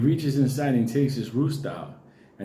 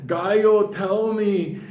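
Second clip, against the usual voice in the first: pleading shaman; 5 semitones higher, slower than usual. Retold or imitated. Shaman begging the rooster for answers, mild mock plea. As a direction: ask the rooster earnestly. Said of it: "he starts going, in Spanish".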